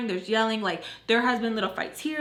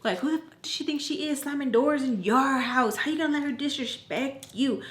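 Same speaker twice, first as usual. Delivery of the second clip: higher-pitched mock outrage; imitated indignant goading; 4 semitones higher than usual. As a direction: egg him on like an offended friend. Retold women goading Tommy.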